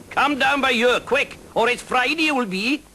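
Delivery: high, loud sing-song dragon; lilting dragon voice. Acted. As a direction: boom it up lilting and Welsh. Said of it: "lilting sing-song voice, high-pitched".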